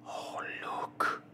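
breathy, restrained exclamation; a mild mock cry of excitement; hushed call to look; cried out. A narrator's reading. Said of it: "cried the Canadian".

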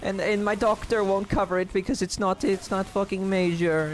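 mock rich kid. Mocking himself as a spoiled rich kid, high and whiny. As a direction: ham up a pampered brat's complaint. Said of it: "I'm like that rich kid".

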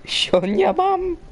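laughing taunt. Real, not acted.

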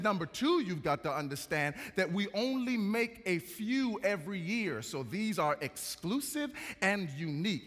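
a light mock British accent, drawing out the last words; fake British accent. Salesman boasting about handmade cars, fake British accent. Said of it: "putting on a fake British accent".

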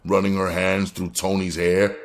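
ordinary delivery, nothing marked

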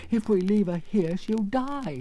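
lion fighting off sleep as he warns; labouring lion. Acted. Lion warning friends about the poppies, labouring. Lion succumbing to poppy scent.

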